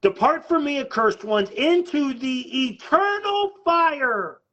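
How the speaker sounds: emphatic scriptural pronouncement, slowing into a long fall; proclaimed judgment quote. Retold or imitated. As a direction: proclaim the verdict, stretching the final words. Preacher proclaiming Jesus's judgment sentence.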